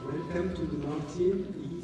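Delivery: ordinary talk, nothing marked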